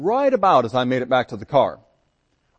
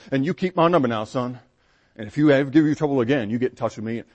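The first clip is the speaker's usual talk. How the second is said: captain's voice. Retold or imitated. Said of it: "sing-song, strong voices".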